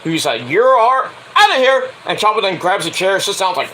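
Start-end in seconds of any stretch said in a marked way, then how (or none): 0.5-1.9 high, mock referee yell; referee's ejection. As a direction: throw them out like an angry ref. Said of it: "gets caught by the referee, who's like".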